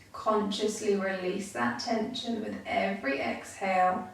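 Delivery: calm, unhurried meditation guide with long pauses; guided meditation. Real, not acted. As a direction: guide listeners gently into stillness, leaving space between phrases.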